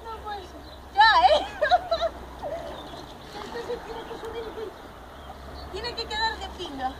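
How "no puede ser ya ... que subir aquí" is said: very soft, falling "No puede ser." under the breath; muttered. Real, not acted. Repeats, muttered to self.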